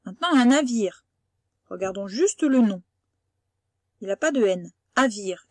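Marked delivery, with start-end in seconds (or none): 4.9-5.5 Avire with no N at the start; wrong word demo. Shown as a demonstration. Teacher testing a non-word with a pupil, clearly. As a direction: say Avire, dropping the N. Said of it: "Est-ce que ça existe".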